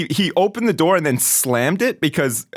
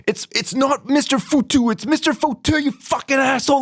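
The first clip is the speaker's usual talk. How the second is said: mock angry outburst; 11 semitones higher than usual. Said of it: "fucking lost it. He was like".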